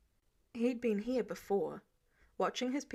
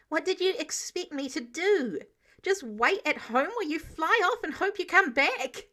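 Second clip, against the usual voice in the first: voice cracking; 6 semitones higher, 4 dB louder than usual. A narrator's reading. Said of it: "His voice cracked at the end".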